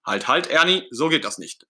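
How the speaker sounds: high, loud halt, then firm; stern Bert. Acted. Bert stopping Ernie from setting off, stern. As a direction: call a sharp stop, then settle into sternness. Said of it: "sagt Bert mit strenger Miene".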